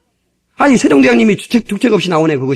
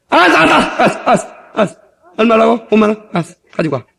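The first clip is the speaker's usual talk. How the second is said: laughing father. Pretend. Father laughs, gives money.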